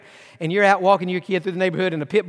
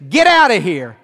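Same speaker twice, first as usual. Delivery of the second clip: commanding rebuke; 6 dB louder than usual. Acted. Jesus rebuking serpents.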